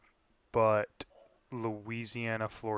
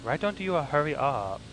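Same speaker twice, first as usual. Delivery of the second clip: high, put-on bad Asian accent; hammed-up mock Asian accent, pitched up; 3 semitones higher than usual. Passenger spotter urging the driver on, bad Asian accent. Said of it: "he has to have a bad Asian accent".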